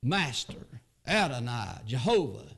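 a hint of a trembling plea, slow; preacher voicing Abraham begging God; Abraham's humble plea. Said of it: "That's how".

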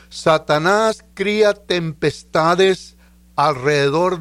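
deliberate, phrase-by-phrase reading with long pauses; slow reading. Real, not acted. Preacher reading a written thought to the congregation, slowly. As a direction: read it out slowly, letting each phrase land. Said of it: "Te lo voy a leer despacito".

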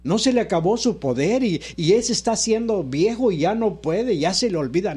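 rhythmic declarations, each phrase lifted in pitch; emphatic preaching. Real, not acted. Pastor testifying to the congregation that God still works, emphatic preaching.

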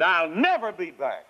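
defiant sinner. Retold or imitated. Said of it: "Isn't that just like a sinner?".

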